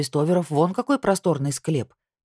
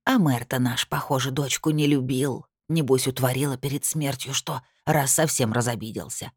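put-on lisping old woman; 3 semitones lower than usual. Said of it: "я вдруг услышала шепелявый голосок".

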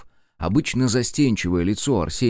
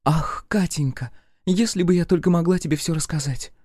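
hot whisper; 8 semitones higher than usual. A narrator's reading. Friend confiding to Katya, mock-dramatic gushing. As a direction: whisper it like a secret you can't keep. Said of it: "жарко шепча".

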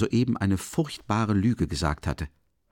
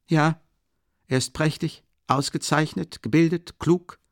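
high, animated string of praise; sudden liveliness; 8 semitones higher, 4 dB louder than usual. A narrator's reading. Brother suddenly praising the doctor, unusually lively. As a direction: pile up the compliments with eager energy. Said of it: "schnell und mit einer an ihm nicht gewohnten Lebhaftigkeit".

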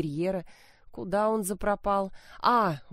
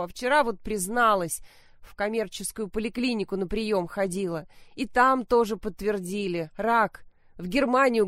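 loud and irritated; 3 semitones higher than usual. Acted. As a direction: wail it out, annoyed and loud. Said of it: "Мать заголосила, сильно и раздражённо".

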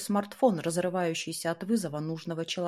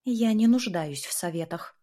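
angry snap; 3 semitones higher than usual. Acted. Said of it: "зло огрызнулась".

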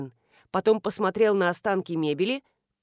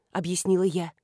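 usual speaking voice

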